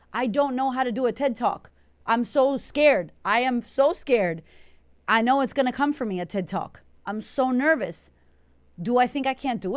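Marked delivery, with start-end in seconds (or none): none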